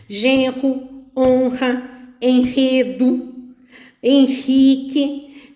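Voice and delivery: GENRO, HONRA, ENREDO, HENRIQUE said slowly, each with a strong breathed R. Shown as a demonstration. Teacher shows words with one R sounding strong, slowly enunciated. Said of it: "o R tá sendo produzido forte".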